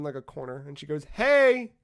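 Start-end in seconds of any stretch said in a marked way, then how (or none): 1.0-1.7 put-on high, loud little-girl greeting. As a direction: call out in a drawn-out girlish singsong. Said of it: "this little girl standing on".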